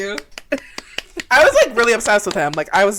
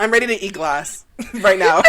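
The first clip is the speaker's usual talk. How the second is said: laughing. Real, not acted. Cracking up at the singing.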